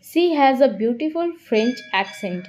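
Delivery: very slow, clear example reading; slow classroom dictation. Shown as a demonstration. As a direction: read it out word by word for learners. Teacher dictating example sentence.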